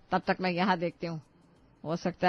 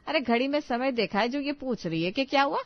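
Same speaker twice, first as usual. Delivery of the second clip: indignant scolding; 5 semitones higher than usual. Acted. Mother-in-law scolds late daughter-in-law.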